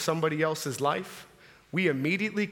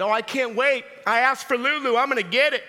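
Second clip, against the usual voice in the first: mock excited daughters, raised pitch; excited girls; 4 semitones higher, 3 dB louder than usual. Daughters awaiting Lululemon pants for Christmas, acted excitement. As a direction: gush with eager anticipation. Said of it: "These girls are excited".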